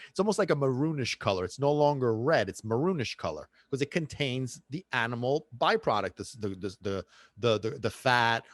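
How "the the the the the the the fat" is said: stuttering. Real, not acted. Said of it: "I'm stuttering".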